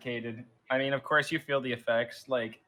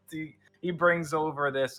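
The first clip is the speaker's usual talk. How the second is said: normal talking voice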